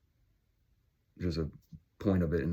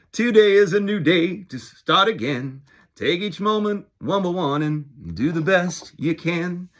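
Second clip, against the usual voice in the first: motivational voice; 10 semitones higher, 6 dB louder than usual. Acted. Upbeat motivational pep talk.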